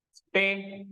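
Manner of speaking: स्टे said alone as the first syllable; स्टे spoken as a separate syllable; broken into syllables. Shown as a demonstration. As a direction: split the word and say just स्टे. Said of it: "तोड़ के बोलना".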